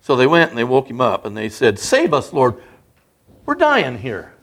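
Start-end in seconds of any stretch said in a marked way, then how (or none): 1.8-4.3 mildly acted plea for rescue; crying out. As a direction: retell the cry, pitched up at first. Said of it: "they cried out".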